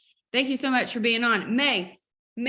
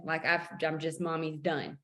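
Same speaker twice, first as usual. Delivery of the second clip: fed-up mom; 6 semitones lower, 7 dB quieter than usual. Retold or imitated. Worn-out mom retold.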